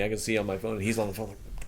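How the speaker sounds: usual speaking voice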